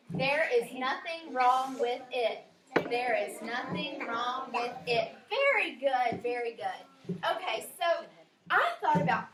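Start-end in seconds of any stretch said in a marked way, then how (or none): 0.1-2.4 slow choral model. Shown as a demonstration. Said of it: "let's say it all together". 2.9-5.1 slow choral model. Shown as a demonstration. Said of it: "let's say it all together".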